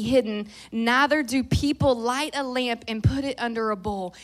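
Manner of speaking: emphatic, declarative Bible reading; scripture reading. Real, not acted. Preacher reading Matthew five to the congregation, emphatic and declarative. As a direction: proclaim each phrase, easing off toward the end. I'm a fast reader.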